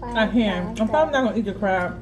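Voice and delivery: talking through a mouthful; smacking while talking; chewing noisily. Real, not acted. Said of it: "Excuse me for smacking and talking".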